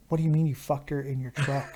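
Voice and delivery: disbelieving question through a laugh. Retold or imitated. Narrator laughing in disbelief at his friend's confession. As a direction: laugh it out, can't believe it.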